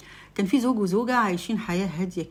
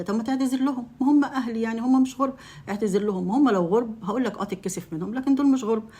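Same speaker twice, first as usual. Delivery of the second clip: raised voice, higher and louder; insistent; 4 semitones higher, 3 dB louder than usual. Acted. Wife insisting her husband cancel on his family, raised voice. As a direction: push hard, nearly shouting.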